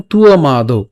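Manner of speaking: তুও মা দৌ with a tu-o glide; model pronunciation. Shown as a demonstration. Teacher models the phrase, gliding তুও then মা দৌ. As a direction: spell out তুও মা দৌ by syllable. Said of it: "উচ্চারণ করবো কেমন?".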